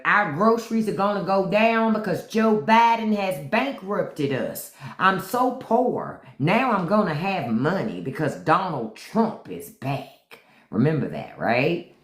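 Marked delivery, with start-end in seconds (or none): 0.0-10.4 mocking poor-me whine; mock whining. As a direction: imitate a whining voter, stretching the words. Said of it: "maga are online crying and whining".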